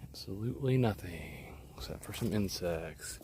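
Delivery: hushed whisper so nothing is scared off. Real, not acted. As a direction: keep it breathy and hushed. Quiet near wildlife while filming.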